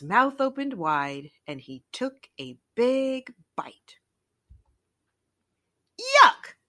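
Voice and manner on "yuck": loud, high cry of disgust; disgusted yuck. A narrator's reading. Goat tasting chewy bread, loud and high disgust. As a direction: spit out a shocked yuck. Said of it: "thought Billy".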